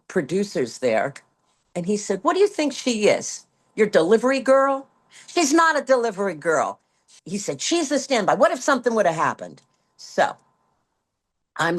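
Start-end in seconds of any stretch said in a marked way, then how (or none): 2.2-9.6 retold scolding. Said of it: "he stormed into the".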